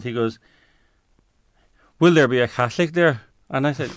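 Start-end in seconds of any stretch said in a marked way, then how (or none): 2.0-3.2 imitated Northern Irish accent. Presbyterian theologian questioning an interfaith invitation, imitated Northern Irish accent. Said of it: "in his Northern Ireland accent".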